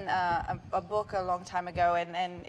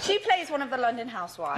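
put-on London accent; 4 semitones higher, 4 dB louder than usual. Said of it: "we gotta do the whole interview in that".

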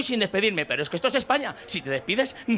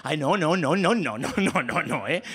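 flustered protest; 6 semitones lower than usual. Acted. Flustered father objecting to boy dancing.

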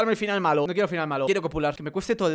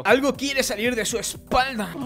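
slow, higher-pitched mock horror; acted dread; 5 semitones higher, slower than usual. Gamer redoes the line about the alien's back, mock dread. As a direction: draw it out with hammed-up suspense. Second, slower take of alarmed line.

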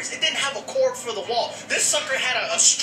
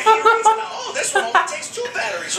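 laughing impression; 9 semitones higher, 5 dB louder than usual. Impersonating Martin reading label, laughing.

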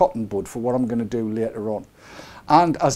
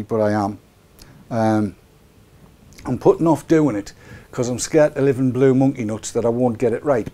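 ordinary talk

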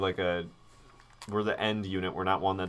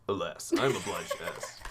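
laughing retake. Pretend. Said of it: "Oh, it's not the".

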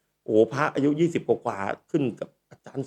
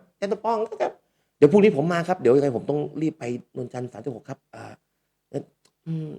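junior's polite voice; 3 semitones higher than usual. Retold or imitated. Junior voiced in a retold exchange.

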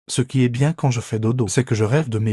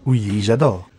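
thrilled shout; 3 semitones lower, slower than usual. Acted. Cat thrilled by papa's play.

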